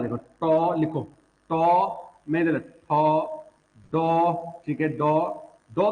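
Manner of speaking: टॉ, ठॉ, डॉ said slowly with the tongue curled back; teacher carefully voicing टॉ and डॉ as retroflex; retroflex sounds demo. Shown as a demonstration. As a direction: sound out टॉ ठॉ डॉ ढॉ from the roof of the mouth. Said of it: "मूर्धा से कौन कौन से निकलता है".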